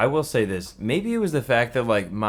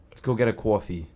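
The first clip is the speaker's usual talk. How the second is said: New York accent; faster than usual. Shown as a demonstration. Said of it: "That's more New York".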